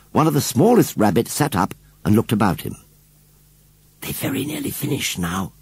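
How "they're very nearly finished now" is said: hushed, softer storybook whisper; soft undertone to a companion. A narrator's reading. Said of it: "whispered John".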